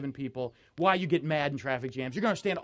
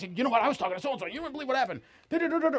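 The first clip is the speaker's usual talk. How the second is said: high-pitched mock gossip chatter; 7 semitones higher, much faster than usual. Complainer tells someone else, in mock gossipy indignation. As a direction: imitate a gossip eagerly spilling it, rising into babble.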